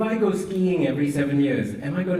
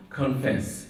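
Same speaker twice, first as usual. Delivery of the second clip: the single word "confess" set apart; stress on CONFESS. Shown as a demonstration. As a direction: land firmly on "confess" by itself. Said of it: "Number one".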